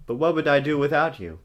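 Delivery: whispered, pleading; whispered plea. Acted. Vampire pining for the heroine, hushed whisper. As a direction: breathe it like a swooning lover. Romantic line read breathily.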